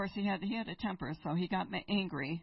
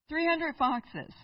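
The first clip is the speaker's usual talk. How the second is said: Three hundred foxes said slow, high and loud, hundred stressed; emphatic repeat; 9 semitones higher, 4 dB louder, slower than usual. Shown as a demonstration. Preacher to congregation, amazed at the number, slow and emphatic. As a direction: lean hard on hundred, slowly. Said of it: "He goes and finds three hundred foxes".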